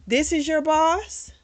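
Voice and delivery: slow, high, rising disbelief; incredulous question. Retold or imitated. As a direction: imitate a stunned mom checking what she sees. Mom stunned on meeting the boss.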